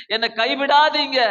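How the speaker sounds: crying plea not to be forsaken; a tearful plea to God. Acted. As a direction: let the voice catch with a sob. Voiced prayer, crying heard.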